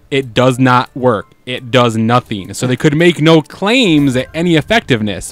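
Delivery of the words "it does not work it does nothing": mock ad voice. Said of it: "the entirety of the commercial was".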